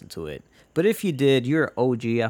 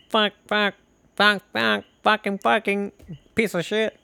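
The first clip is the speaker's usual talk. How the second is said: high, monotone honking words; car horn honk; 9 semitones higher than usual. Retold or imitated. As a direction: honk each word on one high note. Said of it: "his mom's car's honk".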